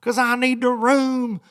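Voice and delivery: a lightly voiced rude passenger; demanding passenger. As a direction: insist on the exit row. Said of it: "he's like".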